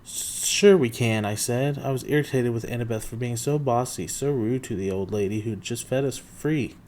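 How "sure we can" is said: slow, loud insistence; insistent retort. Acted. Percy pushing back at bossy Annabeth, slow and loud.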